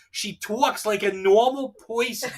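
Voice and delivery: slow, hammed-up Jersey accent; teasing Jersey imitation, vowels stretched; mock Jersey accent. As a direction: mimic her Jersey accent, "talks" as "twawks", "person" as "poyson". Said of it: "the crazy jersey wife".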